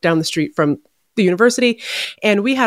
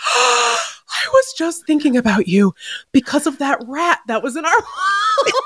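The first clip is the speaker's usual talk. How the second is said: laughing; 7 semitones higher than usual. Retold or imitated. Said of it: "I was like".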